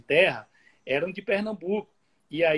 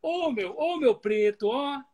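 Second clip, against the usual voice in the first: much higher, swooping Bahian melody; Bahian intonation; 8 semitones higher, slower than usual. Shown as a demonstration. Showing a friend the curvy Bahian tune. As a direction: go up high then drop down, Bahian style. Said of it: "ela curva mais".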